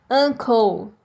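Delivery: "Uncle" with U like A and final L, no E; ending in L. Shown as a demonstration. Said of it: "A gente termina com o som de L". ("Uncle" terminando com som de L)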